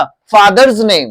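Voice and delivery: फादर्स with a voiced "z" ending before name; z sound. Shown as a demonstration. Teacher models possessive ending for students, z sound. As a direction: say फादर्स as "fatherz", slowly. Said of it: "ज pronounce करें यहाँ पे".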